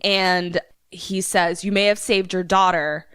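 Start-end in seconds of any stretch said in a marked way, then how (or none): 1.6-3.1 villain's threat in a faked Irish accent; bad Irish accent. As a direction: menace him with a put-on Irish brogue. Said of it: "my accent is going to be terrible".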